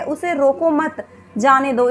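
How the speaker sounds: slow "उसे रोको मत", break, then "जाने दो"; pause after मत. Shown as a demonstration. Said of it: "हम मत के बाद विराम ले रहे हैं".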